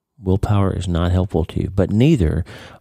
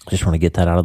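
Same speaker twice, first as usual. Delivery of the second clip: congested, blocked-nose voice; stuffy nose. Real, not acted. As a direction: speak through a stuffy head cold. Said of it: "I am incredibly stuffy this morning".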